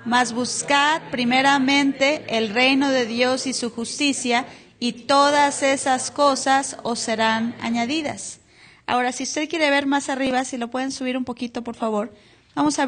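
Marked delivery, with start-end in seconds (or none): 0.0-8.4 slow, measured reading of scripture. Acted. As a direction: read the verse slowly and solemnly. Reads scripture slowly.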